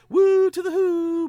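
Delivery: excited. Real, not acted. Cheering sign-off catchphrase.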